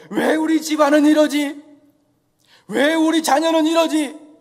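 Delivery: slow, loud, hammed-up wail of woe; mock lament. Preacher mocking a lamenting Jesus, slow loud hammed-up wail. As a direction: drag out each "why" like a mock complaint. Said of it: "한탄하시겠냐".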